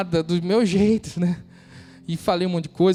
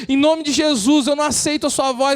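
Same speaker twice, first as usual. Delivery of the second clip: preaching at full force; 10 semitones higher, 6 dB louder than usual. Acted. Preacher rousing the congregation, full-force preaching. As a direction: lift the room, declaim every phrase.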